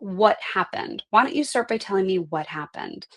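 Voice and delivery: calm and reassuring coach asking what happened; gentle open question. Shown as a demonstration. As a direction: invite them to tell it, no blame. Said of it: "asking it in a different way".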